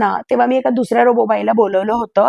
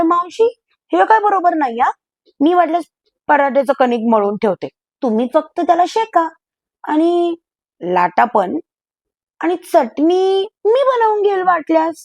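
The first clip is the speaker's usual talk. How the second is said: coaxing plea; 5 semitones higher than usual. Acted. Pleading with the maid.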